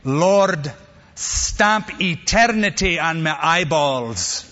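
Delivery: slow, lightly Scottish prayer voice, a chuckle at the end; a hint of a thick Scottish brogue, drawn out. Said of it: "in his thick Scottish brogue".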